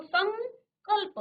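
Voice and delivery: संकल्प slow, with a clear ng before कल्प; slow demonstration. Shown as a demonstration. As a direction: stress the ng in संकल्प. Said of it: "अंग का जो उच्चारण है आधा".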